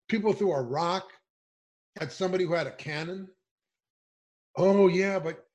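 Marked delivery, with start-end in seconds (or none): 4.6-5.5 high, loud sneering mimicry; mock reporters. Mocking the media for saying protesters lost the message, high and loud. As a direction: parrot the media's line with scorn. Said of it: "they say".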